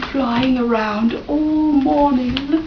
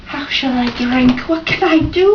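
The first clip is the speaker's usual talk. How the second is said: crow crying out; 5 semitones higher than usual. Acted. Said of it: "cried Crow".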